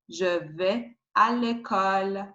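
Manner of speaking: "vais" as veh, ai making one sound; silent final S. Shown as a demonstration. Teacher repeating the example, "vais" with silent S. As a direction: run "Je vais à l'école" together in French, "vais" without S. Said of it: "you don't pronounce S and you".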